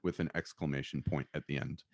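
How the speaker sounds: hushed, voiceless whisper; mock ASMR whisper. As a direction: whisper it softly for the microphone. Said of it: "listen to us talk like this".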